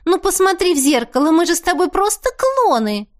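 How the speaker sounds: высокий оживлённый голос; выше, горячо убеждая; Теа убеждает. A narrator's reading. (Теа выше, горячо)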